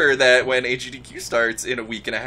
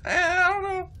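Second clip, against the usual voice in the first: mock mumble; 4 dB quieter than usual. Mocking the other's mumble.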